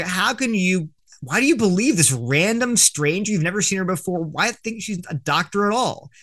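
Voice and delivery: mildly mocked-up disbelief; challenging disbelief. Acting out the disbelieving crowd's challenge.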